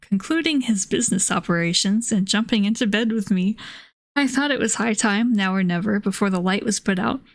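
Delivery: measured audiobook-style reading, even pitch; story narration. A narrator's reading. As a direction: read the old novel aloud evenly. Reads a novel aloud.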